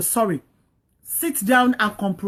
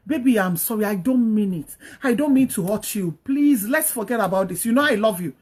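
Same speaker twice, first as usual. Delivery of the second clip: mild apology; 2 semitones lower than usual. Acted. Husband telling his wife how sorry he is, mildly apologetic. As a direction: gently coax forgiveness, understated. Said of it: "tell your wife how sorry you are".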